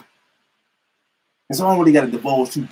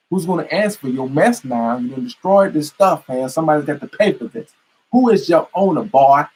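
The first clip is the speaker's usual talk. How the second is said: mock angry interrogation. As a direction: demand his owner with rising anger. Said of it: "they'll be like".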